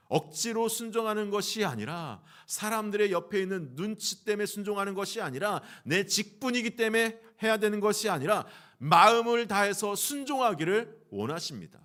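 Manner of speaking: high, loud, mounting sermon cadence; impassioned preaching. Real, not acted. Preacher urging the congregation to obey wholeheartedly, impassioned preaching. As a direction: build each phrase to a forceful peak.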